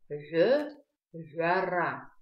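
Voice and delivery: lip-rounded throaty В, then вяра starting with it; абазинское произношение. Shown as a demonstration. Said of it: "на абазинском языке вяра". (гортанное округлённое «В, вяра»)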